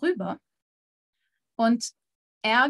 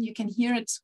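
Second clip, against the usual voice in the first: whisper. Real, not acted.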